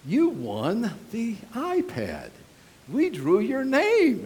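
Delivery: slow, rising prize announcement. Retold or imitated. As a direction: announce the win slowly, building. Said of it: "she answered and said".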